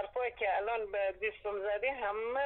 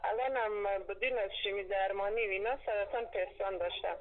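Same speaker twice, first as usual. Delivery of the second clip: caller heard through phone line; over a landline phone. Real, not acted. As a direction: narrow telephone sound.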